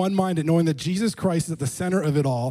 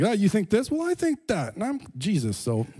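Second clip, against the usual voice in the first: playful Jesus one-upping; 4 semitones higher than usual. Retold or imitated. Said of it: "he's like".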